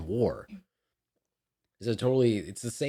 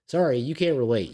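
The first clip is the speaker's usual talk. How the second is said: sharp, louder, higher retort; emphatic retort; 6 semitones higher, 6 dB louder than usual. Real, not acted. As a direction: throw the "Sorry" right back at them. Repeats louder with sorry.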